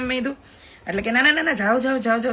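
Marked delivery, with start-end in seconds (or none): 1.1-2.3 strict. Retold or imitated. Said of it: "તો strictly મેં કીધું ને".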